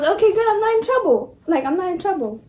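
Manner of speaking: high, giggly relieved voice; laughing relief. Retold or imitated. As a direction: laugh it out, off the hook.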